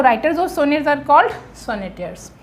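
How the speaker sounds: half-speed, word by word; slow dictation. Shown as a demonstration. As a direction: spell the answer out for notes. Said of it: "teacher dictates answer".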